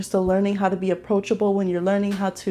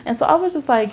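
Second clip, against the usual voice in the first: ordinary delivery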